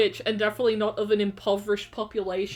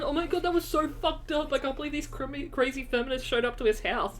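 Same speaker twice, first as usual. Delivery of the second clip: mocking outrage; 3 semitones higher, 4 dB quieter, faster than usual. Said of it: "then everyone".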